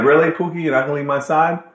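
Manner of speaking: high, loud sarcastic "really?"; mock disbelief. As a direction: tease him for promising to stick close. Mocking Pookie's promise.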